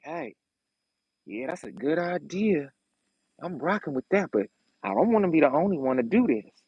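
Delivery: quiet sly schemer's voice; hushed, sly, casual persuasion; sly, scheming. Retold or imitated. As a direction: slip the idea in softly like a schemer. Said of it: "look how I'm talking to y'all".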